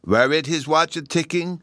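put-on high, rising little-boy question; eager child Bruno. A narrator's reading. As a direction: ask it high, like an excited small boy. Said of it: "Bruno asked me".

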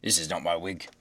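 low-pitched judge voice; low, put-on magistrate; judge's exclamation. A narrator's reading. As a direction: object in a deep judge's voice.

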